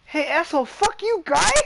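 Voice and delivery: high-pitched, hammed-up Chinese-accented outburst; mock Chinese accent. Streamer mimicking a woman arguing with her partner, mock Chinese accent. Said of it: "in such a thick Chinese accent".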